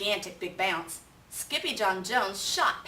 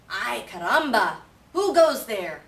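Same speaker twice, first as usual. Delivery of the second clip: much louder challenge with a Spanish flair; calling out; 2 semitones higher, 9 dB louder than usual. Acted. Kitten calling out to the band of Chihuahuas, loud. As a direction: call out to the strangers. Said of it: "asked Skippy John Jones".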